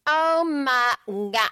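very slow, stretched Oh, my God; stretched-out drawl. Real, not acted. After a hiccup, very slow drawn-out groan. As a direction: drag every word out. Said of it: "Why do I talk like that?".

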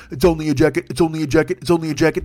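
droning mock chant; the same tune on a loop; mindless repetition. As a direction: parrot it mechanically. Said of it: "repeat their bullshit over and over".

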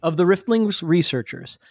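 measured fantasy-lore narration; storyteller voice with deliberate dramatic pauses; full narrator voice. Acted. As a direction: tell it like an epic prologue, phrase by phrase. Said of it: "my full narrator voice on".

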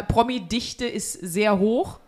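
normal talking voice

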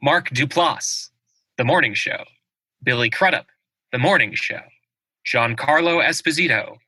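formal awards-show announcer. Acted. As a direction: read the nominees like a big announcer. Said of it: "That was fantastic announcer voice".

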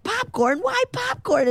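climbing to a very high squeak of confusion; baffled. Retold or imitated. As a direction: ask it utterly bewildered. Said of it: "she's like".

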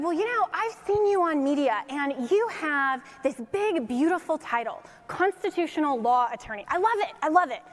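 a hint of Trump's showman praise; Trump impression. President praising her big title on the phone, lightly mimicked.

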